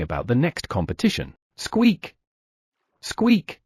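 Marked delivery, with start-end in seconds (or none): 1.6-3.6 high, sharp rabbit squeak. Acted. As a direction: squeak like an eager little rabbit. Black Rabbit calling out.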